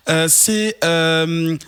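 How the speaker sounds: a hint of a friend's voice, half playful; imitating Ben. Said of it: "Pourquoi t'imites Ben?".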